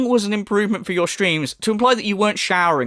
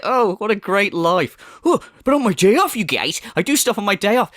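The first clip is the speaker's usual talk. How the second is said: mocking impression; 4 semitones higher than usual. Commentator parodying the streamer's boasts, high mocking whine.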